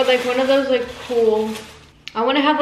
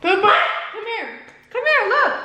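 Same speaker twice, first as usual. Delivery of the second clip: calling out; 9 semitones higher than usual. Real, not acted. Calling dog from afar.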